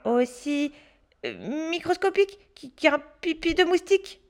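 mock the witch cheekily; boy taunting the tiny witch; cheeky boy.

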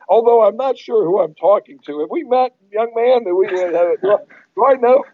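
put-on high, doddering old-timer voice; confused old man. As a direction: play a befuddled old geezer. Playful senile old-man act.

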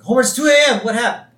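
high, loud mock alarm; Marge. Marge woken by Homer at night, loud high voice. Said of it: "so she's like".

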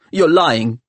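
high, loud accusation; upset denial. A narrator's reading. Tom denies Hester's account of Valentine, upset.

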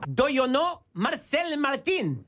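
very slow mock-Mexican English; Mexican accent. Comic repeats his joke for colleagues, Mexican accent. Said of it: "Au Mexique, on dit".

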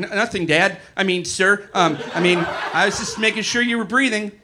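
mildly nervous, stammered excuse; a touch of fluster, stumbling over words; nervous reply. Acted. Narrator nervously answering his friend, mild nerves. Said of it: "I nervously replied".

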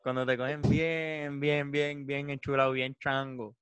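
alargando las palabras. Real, not acted. Describing being besotted, drawn out.

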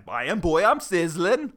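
badly faked Icelandic accent; attempted Icelandic accent. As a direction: have a go at an Icelandic character accent. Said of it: "trying to get that character".

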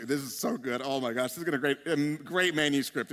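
low, soft murmur to himself; lightly voiced absorbed writer. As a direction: play a writer quietly pleased with his own work. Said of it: "he's writing it and he just kinda".

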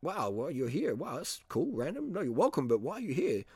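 soft, sing-song mock wonder; surprised locals. Locals surprised to see a tourist, soft sing-song wonder. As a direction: play a surprised villager. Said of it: "looking at you weirdly with surprise".

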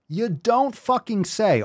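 slow, high mock amazement; sarcastic disbelief. Real, not acted. Reacting to the soap brand news with slow sarcasm. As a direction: drag it out, dripping sarcasm.

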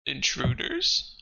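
drawn-out, slow eerie voice; slow monster voice. Acted. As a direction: stretch it out like a creature. DM voicing the voice in head.

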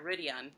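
"Rudion" said ROO-dee-on; "Rudion" with an "oo" sound, stressed first syllable; audiobook pronunciation. Shown as a demonstration. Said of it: "That's what they say in the audiobooks".

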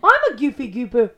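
mild mock British; British accent. Shown as a demonstration. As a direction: have another go at British.

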